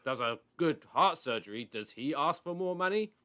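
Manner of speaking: high, loud indignant whine; whiny Jim White. Retold or imitated. Jim White mocked, whining about surgeons' pay. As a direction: ham up the pundit's outrage. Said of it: "he's like".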